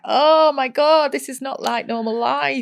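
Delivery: drawn-out, weary oh my god; a slow, worn-out sigh of disbelief; a tired teen at the end of the day; exhausted exclamation. Retold or imitated.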